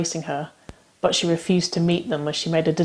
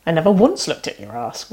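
huffy; 4 dB louder than usual. Acted. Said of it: "Waverley huffed".

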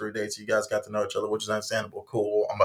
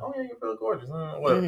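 sarcastic; 9 semitones higher than usual. Retold or imitated. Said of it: "I know me. I would've been like".

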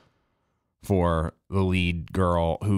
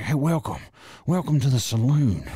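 overdone country twang, talked into the back of the cheeks; mock hillbilly accent; 3 semitones higher than usual. Vlogger mocks the lead's southern accent in a hammed-up hillbilly welcome. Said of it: "talked into, like, the back of her cheeks".

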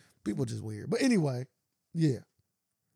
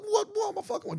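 imitated indignant squawk.

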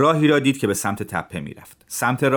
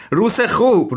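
much higher, louder, jolly foreign voice; cheerful Tatar; 11 semitones higher, 4 dB louder, slower than usual. Acted. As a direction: wink and beam as you say it, high and bright.

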